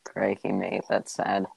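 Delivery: understated mock Australian; Australian accent. Teasing a friend who cannot do accents, in an Australian accent. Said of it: "Can't stop speaking Australian".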